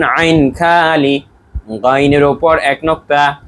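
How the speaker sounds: slow, clear recitation of আইন খালি; teacher gives the line for the class to repeat, in a slow recitation; model recitation. Shown as a demonstration. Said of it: "বলুন".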